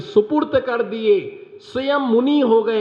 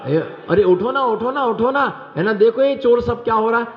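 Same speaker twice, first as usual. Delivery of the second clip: pitched-up pleading wife; a panicked wife waking her husband; wife urging, higher; 4 semitones higher than usual. Retold or imitated. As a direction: shake him awake, higher and urgent. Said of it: "क्या कहा उसने".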